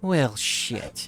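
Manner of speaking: tiny, quiet, whispered pixie voice. Game master voices a pixie as the fairy ring shatters, in a quiet little voice. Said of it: "you hear a quiet little voice".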